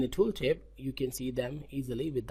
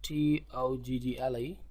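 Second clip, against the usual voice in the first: spelled out letter by letter. Shown as a demonstration.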